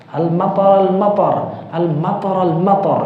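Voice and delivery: Arab way al-matar. Retold or imitated. Teacher shows how Arabs say rain. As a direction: imitate a native Arab saying al-matar. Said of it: "Kalau orang Arab kan gitu".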